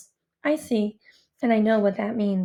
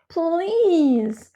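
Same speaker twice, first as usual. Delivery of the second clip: drawn-out, higher-pitched plea; pleading; 4 semitones higher, 3 dB louder than usual. A narrator's reading. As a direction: beg on one stretched word. Desperate plea to whoever is in charge.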